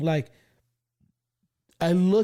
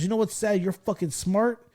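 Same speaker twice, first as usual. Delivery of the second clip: higher retold teacher speech; lecturing teacher; 5 semitones higher than usual. Teacher tells class clown he's smart, exasperated lecture. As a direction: imitate an exasperated Stand and Deliver teacher. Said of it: "He did the whole stand and deliver thing".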